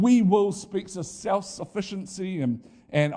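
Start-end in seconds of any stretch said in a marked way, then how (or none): 0.0-0.5 boastful we will. Retold or imitated. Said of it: "their attitude was just like".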